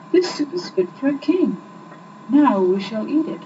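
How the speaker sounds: put-on high, eager young man keen to eat; lightly voiced hungry young man. A narrator's reading.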